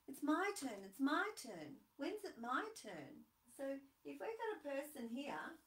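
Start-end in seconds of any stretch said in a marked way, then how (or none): 0.1-3.2 put-on impatient child. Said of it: "they say to me".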